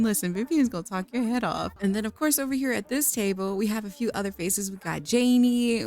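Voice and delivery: usual speaking voice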